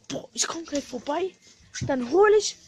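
die wütende Schwester nachmachen, mittendrin lauter und höher; nachgemachter Ausraster. Retold or imitated. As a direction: gespielte Standpauke, die gedehnt anschwillt. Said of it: "Die ist einfach ausgerastet". (nachgeäffte ausrastende Schwester)

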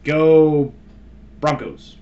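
loud fan cheer; sports fan cheer. Pretend. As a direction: cheer like in the stands. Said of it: "Can be a sports fan".

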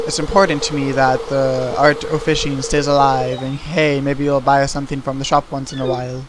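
salty fisherman voice. Acted. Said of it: "what type of accent to give this guy".

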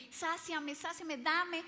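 clingy "dame" begging; mock needy pleading. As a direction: beg to be filled. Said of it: "tan necesitada de que".

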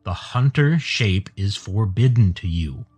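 put-on deliberate, as if to a child; very slow explaining. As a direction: lay it out word by word. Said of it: "as one would explain to a gromling".

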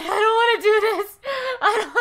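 half-laughing, half-crying plea; real fear breaking through a laugh; scared whimper. Real, not acted. Scared gamer in horror game.

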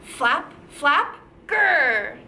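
chanted flaps, then a growl; dinosaur flap and growl. Shown as a demonstration. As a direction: flap twice, end in a playful grrr. Teacher models flaps and dinosaur growl.

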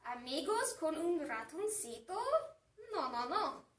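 acted scornful wolf laugh; lightly hammed-up derisive chuckle; mocking laughter. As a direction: laugh off the very idea, incredulous. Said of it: "todos los lobos se ríen".

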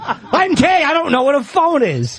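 building to a high mock shout; mock yelling. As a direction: yell it with clueless comic conviction. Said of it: "talking to a cock and balls and yell".

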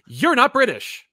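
high, loud mock accusation; mock disbelief. Acts out reaction to bad accent.

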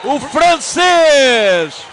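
slow, drawn-out excited calls; explosive goal commentary. Real, not acted. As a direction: savour each word in a slow roar. Celebration continues.

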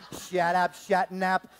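lightly voiced cartoon bank robber; Looney Tunes robber. Quoting the Looney Tunes robber to Bugs Bunny, light cartoon voice. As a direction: toss it off like the cartoon crook. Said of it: "That's what Jesus said to the storm".

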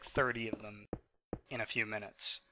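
talking through hiccups; hiccuping mid-sentence. Real, not acted. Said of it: "Sorry, hiccuped again".

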